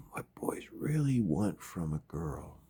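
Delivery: put-on slow, whispery boyish British accent; British boy, drawn out and breathed. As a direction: put on a hushed, boyish British voice, taking your time. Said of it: "with this boyish British accent".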